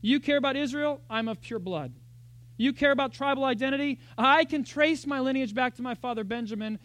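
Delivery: mock-boast the credentials; Paul boasting. Paul answering his rivals, lightly voiced boast. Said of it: "he lists his seven things".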